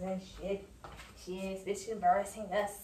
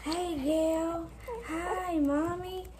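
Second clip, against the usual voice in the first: higher sing-song greeting; 8 semitones higher, much slower than usual. Real, not acted. Greeting his baby daughter in higher baby talk.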